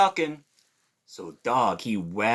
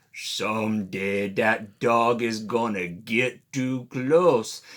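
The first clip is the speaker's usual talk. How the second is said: a touch of a low menacing croc voice; hissing crocodile; 3 semitones lower than usual. Acted. Alligator vowing revenge on Dog, mild menacing hiss. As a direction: threaten under your breath like a sulking crocodile. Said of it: "and hiss".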